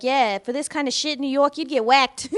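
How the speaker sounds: imitated New York wiseguy; light mock New York mobster accent. Retelling the neighbor griping about apartments, New York accent. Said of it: "And then he's like".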